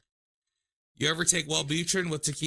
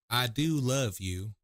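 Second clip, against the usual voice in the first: slow, drawn-out imitation of an American accent; mock American accent; slower than usual. Imitating a TikTok about American accents, slow American accent. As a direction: stretch each word in a put-on American accent. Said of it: "some American accents go like".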